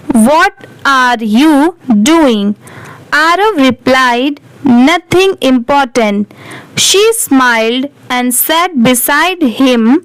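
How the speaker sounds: very slow, word by word English reading; slow read-aloud. Shown as a demonstration. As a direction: read each word out slowly for learners. Reads the story aloud slowly. (धीरे-धीरे शब्द-शब्द पढ़ना)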